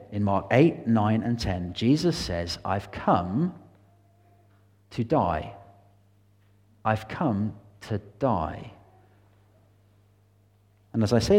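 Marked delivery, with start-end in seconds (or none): 2.6-8.7 hushed solemn quote. Acted. Jesus quoted, announcing his death.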